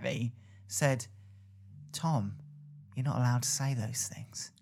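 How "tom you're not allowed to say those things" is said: soft, near-whispered imitated telling-off; hushed reproach. New acquaintance quietly correcting him after awkward silence, hushed reproach. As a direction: drop to a discreet murmur of warning.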